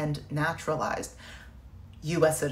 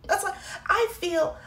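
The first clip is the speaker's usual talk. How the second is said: choked up; 13 semitones higher, 3 dB louder than usual. Real, not acted. Emotional reaction to draft news.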